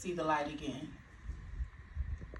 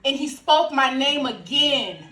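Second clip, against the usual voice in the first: triumphant testimony; 3 semitones higher, 4 dB louder than usual. Acted. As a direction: proclaim joyful news to a congregation. Risen Jesus proclaimed in monologue.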